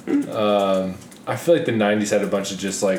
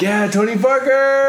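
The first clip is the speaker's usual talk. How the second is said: high, mock-eager fan voice; imitating French fan; 13 semitones higher, 3 dB louder than usual. Retelling a French fan's reply, mock high eager voice. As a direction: squeak it out like a starstruck local fan. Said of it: "He's like".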